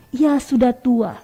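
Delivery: slow, low-pitched reading of "Ia sudah tua"; low intonation. Shown as a demonstration. Teacher demonstrating low intonation to students, slow and low. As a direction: drop the tune on "Ia sudah tua", drawn out. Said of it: "ini intonasi rendah".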